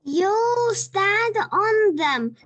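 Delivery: protesting. Acted. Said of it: "protested George".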